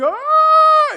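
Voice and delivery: very high, loud imitated wail; mock crying wail. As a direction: wail like a fiancée crying, hammed up. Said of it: "I'm seeing her crying".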